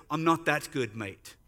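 imitated Australian, dropping away on "mate"; deadpan punchline in a put-on Australian accent. Australian friend admitting his limits, put-on Australian accent. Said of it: "in my best Australian voice".

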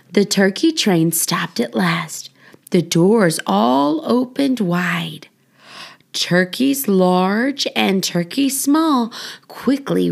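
lively, sing-song picture-book reading; reading to children. Acted. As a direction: read it like a bedtime rhyme for little kids. Reads children's book aloud.

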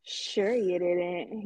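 slow teasing disbelief; sarcastic. Real, not acted. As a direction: drag it out, not buying it.

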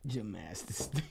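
stunned whisper. Real, not acted. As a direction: whisper it in disbelief. Repeating the odd celebrity baby name.

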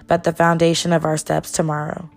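measured spoken-word poem delivery; spoken word poem, steady and proud; poem recitation. Acted. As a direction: recite it like a performance poem, each line landing. Recites a Where I'm From poem.

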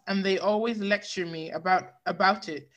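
words broken by a burp. Real, not acted. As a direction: read on through a burp. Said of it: "Sorry, I had to burp".

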